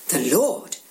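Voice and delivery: mild surprised rising question; excited. Acted. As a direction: catch the news with a lift. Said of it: "they say to one another excitedly".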